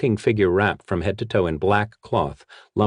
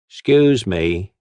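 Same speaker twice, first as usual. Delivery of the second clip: polite; 2 semitones higher, 5 dB louder, slower than usual. Acted. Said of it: "the brute said politely".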